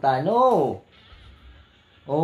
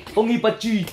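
put-on Bisaya-accented Chinese; 6 semitones higher than usual. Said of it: "kung Binisaya".

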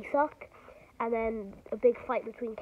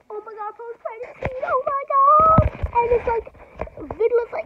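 much higher, loud, stretched out; real excitement; 11 semitones higher, 12 dB louder than usual. Real, not acted. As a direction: burst with excitement. Hyped about the post-credit scene.

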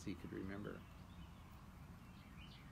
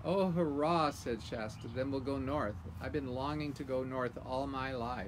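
loud, high delighted cheer; thrilled; 4 semitones higher, 7 dB louder than usual. Acted. Boy cheering at going north, loud and delighted. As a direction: burst out with joy.

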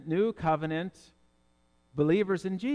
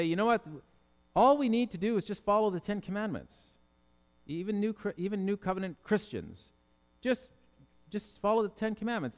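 lightly voiced well-meaning believer, pitched higher; churchgoer's casual urging; 5 semitones higher than usual. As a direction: imitate someone pitching an easy answer, a bit higher. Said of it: "people who talk like this".

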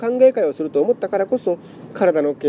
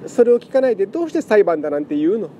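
tearful pleading; 4 semitones higher than usual. Acted. Lament cat pleads emotionally.

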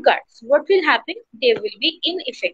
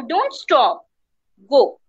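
"Don't stop" as one phrase, then separate "go"; pause before GO; slower than usual. Shown as a demonstration. Teacher showing it means you need to go, GO set apart. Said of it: "this means that you need to go".

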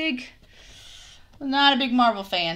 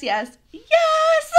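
laughing cheer; 4 dB louder than usual. Real, not acted. Cheering over the ears.

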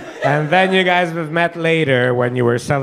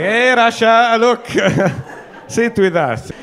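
mock friendly invite; 6 semitones higher, slower than usual. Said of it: "You're like".

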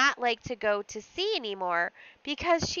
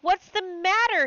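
higher and louder "What's the matter?", falling on "matter"; alarmed cry; 9 semitones higher, 6 dB louder than usual. Acted. Husband alarmed by his weeping wife, crying out. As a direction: repeat it in rising alarm. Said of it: "he stuttered".

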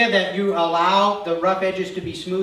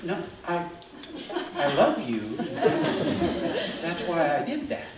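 laughing protest; 3 dB quieter than usual. Retold or imitated. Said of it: "And we're going".

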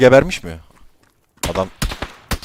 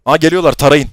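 excited shout; 3 semitones higher, 6 dB louder than usual. Real, not acted. Enemies arrive, calls to shoot.

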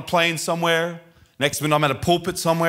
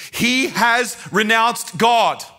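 high, slow, emphatic cry; imitated screaming mother; 7 semitones higher, 4 dB louder, much slower than usual. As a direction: drive each word home as a distraught mother. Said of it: "She's screaming".

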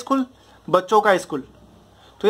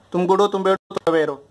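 "तुम गुड हो, तुम बैड हो" held up, "तुम अवेयर हो" dropping to close; rhythm drill. Shown as a demonstration. Teacher asking all students to say it, rhythm drill. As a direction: lead the class in a rhythmic recitation. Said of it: "rhythm पकड़ो".

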